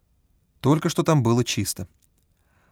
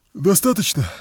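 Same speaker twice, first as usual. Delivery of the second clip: yawning, bored; 6 semitones higher than usual. A narrator's reading. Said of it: "позёвывая".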